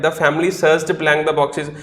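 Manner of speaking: each word spaced out for the class; very slow read-out. Shown as a demonstration. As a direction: dictate the sentence slowly. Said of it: "second sentence में क्या लिखा हुआ था?".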